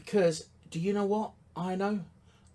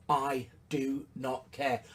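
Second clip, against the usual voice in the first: "I do not care" spaced out slowly, softer, every word weighted; slow emphatic denial; 3 semitones lower, 5 dB quieter, slower than usual. Shown as a demonstration. To marketers, insisting he does not care which emotion: slow, soft, weighted "I do not care". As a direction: lean on each word of "I do not care", quiet and deliberate.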